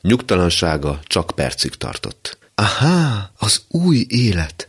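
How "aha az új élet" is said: sudden realization. Acted. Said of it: "jött rá hirtelen".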